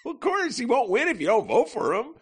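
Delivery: high, laughing through words; trying not to laugh. Real, not acted. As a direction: fight back the giggles. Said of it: "Sorry, I'm trying not to laugh".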